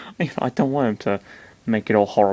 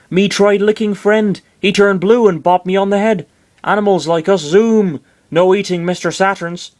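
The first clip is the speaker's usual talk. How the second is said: high, loud cartoon critter voice; high-pitched creature exclaiming; odd little creature; 9 semitones higher, 4 dB louder than usual. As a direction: squeak it out as a silly creature. Creature tells a silly anecdote.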